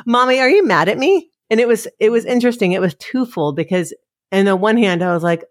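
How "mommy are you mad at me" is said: put-on higher-pitched child's question; imitating small son. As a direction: lightly voice a child checking in with Mommy. Voices small son asking Mommy.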